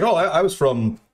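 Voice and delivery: high, chatty tourist imitation; Aiden. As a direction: mimic eager small talk in a lifted voice. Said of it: "Aiden was like".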